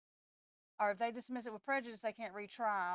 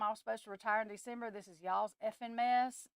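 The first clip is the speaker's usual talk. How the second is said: fed-up telling off; 3 semitones higher, 4 dB louder than usual. Retold or imitated. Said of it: "if I was him, I would tell them".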